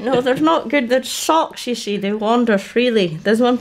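put-on high old granny puppet voice; cheeky old lady puppet voice. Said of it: "can you introduce us to one or two".

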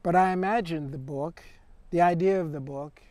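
measured poetry recital with pauses between lines; poem reading. Acted. Poet reads to an audience in Caspar Hauser's voice, measured recital. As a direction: read the verse simply, letting each line land.

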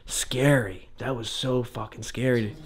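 shivering and nervous, voice dropping low. Real, not acted. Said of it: "I'm shivering".

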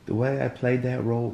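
attempted British accent, landing off the mark. Shown as a demonstration. Asked to do a British accent on the spot, unconvincing British. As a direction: put on a shaky-at-best British accent. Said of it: "do a British accent".

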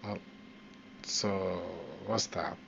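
usual speaking voice

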